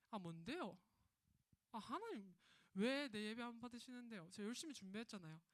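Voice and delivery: light Gyeongsang dialect, sulky Cain complaining to God. Acted. Cain whining to God in Gyeongsang dialect. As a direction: play Cain grumbling in a mild Gyeongsang dialect. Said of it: "사투리 조금 쓸게요".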